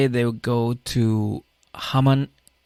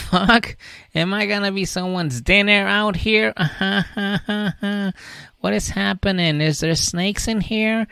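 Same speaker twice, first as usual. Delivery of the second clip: much higher, panicky woman's voice; scared high voice; 9 semitones higher, slower than usual. Retold or imitated. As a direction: squeal it like a frightened girlfriend. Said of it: "she's like".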